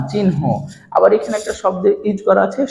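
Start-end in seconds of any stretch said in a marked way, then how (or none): 0.1-0.4 চিহ্ন in two clear parts, chin, ho; n-before-h pronunciation. Shown as a demonstration. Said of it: "দেখো কি দিলাম?".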